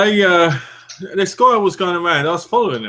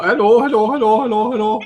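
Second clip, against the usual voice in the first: squeaky teddy voice; 7 semitones higher, 4 dB louder than usual. Pretend. Voicing the wiggling teddy.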